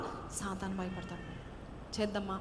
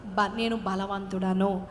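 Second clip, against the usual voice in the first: confident declaration; 3 semitones lower, slower than usual. Shown as a demonstration. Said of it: "బలహీనుడు ఏమనవల?".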